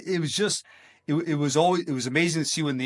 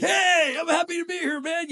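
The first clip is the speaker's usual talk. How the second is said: much higher, louder cheerful hello; officer greeting trudging people, much higher and excited; high-energy greeting; 4 dB louder than usual. Retold or imitated. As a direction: burst in full of energy. Him greeting people at JWC.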